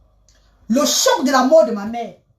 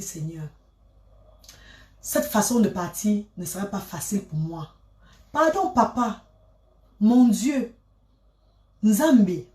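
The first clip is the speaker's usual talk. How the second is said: prayer. Acted. Prays aloud to God. (prière à Dieu, voix basse et douce)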